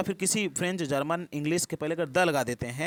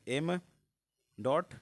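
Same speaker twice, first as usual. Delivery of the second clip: spelled out slowly; much slower than usual. Shown as a demonstration. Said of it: "ऐसे पढ़ा जाता है".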